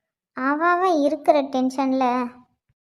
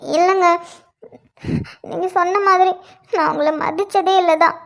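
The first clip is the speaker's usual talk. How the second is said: fake crying; 3 semitones higher than usual. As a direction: pretend tearful plea to husband, a little higher. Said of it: "எதுக்கு இப்போ அழுகுற?".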